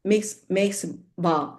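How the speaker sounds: "ba" said slowly and deliberately; slow, careful ba; slow sound demo. Shown as a demonstration. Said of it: "ba plus h, ha, makes ba".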